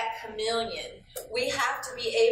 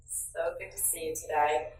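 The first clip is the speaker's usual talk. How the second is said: lower, pointed, passive-aggressive greeting; snide welcome back; sarcastic; 4 semitones lower than usual. Shown as a demonstration. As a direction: needle the coworker who skipped work. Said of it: "like they just played hooky".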